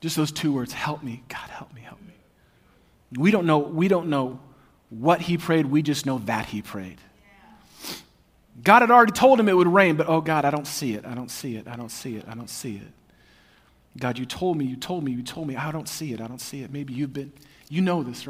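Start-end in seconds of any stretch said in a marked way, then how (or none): 0.7-2.1 softer and softer, then whispered; whispered plea for help. Acted. Elijah praying for help, fading to a whisper. 10.1-16.7 desperate hushed prayer. Acted. Elijah on his knees pleading with God, hushed and despairing.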